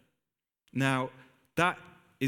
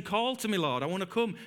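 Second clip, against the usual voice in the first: high eager plea; pitched-up longing; eager Peter; 6 semitones higher than usual. Retold or imitated. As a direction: ask the Lord to call you, desperate to go. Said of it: "he's saying".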